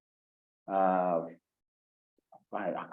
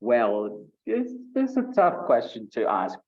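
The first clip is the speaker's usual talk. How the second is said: smiling answer demo; 4 dB louder than usual. Shown as a demonstration. Teacher shows students how smiling sounds while answering. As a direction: speak it through a smile, lifted up. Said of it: "But for example".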